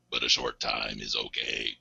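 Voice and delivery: deep, robotic monotone; 1980s robot voice. Pretend. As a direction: drop way down into a machine voice. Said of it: "stress my vocal cords to the limit to get that".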